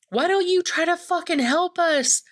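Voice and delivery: high-pitched, desperate angry outburst; freaking out. Retold or imitated. Amy to the armed men at the temple, freaking out. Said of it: "she, like, freaks out".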